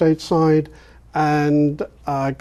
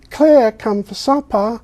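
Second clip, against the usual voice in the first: English dropped R; 6 semitones higher than usual. Retold or imitated. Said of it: "you're gonna say".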